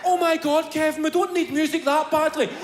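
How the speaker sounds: mock exasperated relative. Relative telling Kevin the music doesn't matter, mock exasperated. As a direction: sigh it off as the bored relative. Relative voiced dismissing him.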